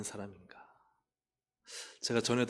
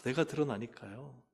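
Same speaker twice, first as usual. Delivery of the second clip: normal talking voice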